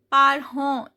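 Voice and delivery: parents said "par-hon", no T or S; silent endings demo. Shown as a demonstration. Teacher shows learners silent final letters, demonstrated French pronunciation. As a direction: end parents on a nasal "on". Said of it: "T and S both are silent".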